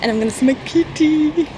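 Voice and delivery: excited. Real, not acted. Looking forward to cat.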